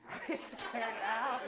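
gruff pirate growl. Acted. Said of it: "now you sound like a pirate".

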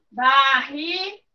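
Barriga said slowly as bar-ri-ga; slow, split into syllables. Shown as a demonstration. Teacher showing children where Barriga splits, slowly drawn out. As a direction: stretch Barriga out, one syllable at a time. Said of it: "Um vai para a primeira sílaba".

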